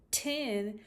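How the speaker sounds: "Tin" with a clear T; wrong T version. Shown as a demonstration. Therapist contrasting tin with chin. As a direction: show the T mistake. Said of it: "Watch my lips".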